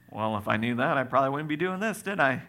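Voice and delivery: mildly cheeky retort; understated smart-aleck comeback; sarcastic back talk. Acted. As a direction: answer back with a touch of sarcasm. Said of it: "for being sarcastic".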